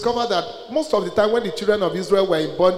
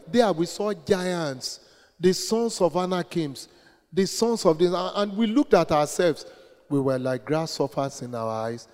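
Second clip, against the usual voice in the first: hushed fearful report; 6 dB quieter than usual. Acted. Voicing the ten spies' fearful report.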